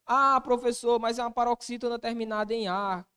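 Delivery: a student voiced by the teacher; student objecting. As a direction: object like a student who thinks he caught the teacher out.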